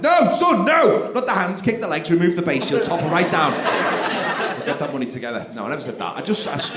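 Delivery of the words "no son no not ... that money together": mock shout. Dad to son at the stairs, loud mock yell. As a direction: yell no, then whisper a scheme. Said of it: "I said".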